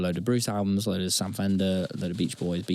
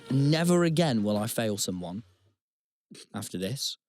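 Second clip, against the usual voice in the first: mock remorse; 5 semitones higher than usual. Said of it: "mock guilt over failing him".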